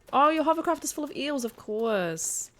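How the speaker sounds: high, loud mock exclamation; comic sketch quote. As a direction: exclaim it high, settling on the last words. Quoting a Monty Python sketch line.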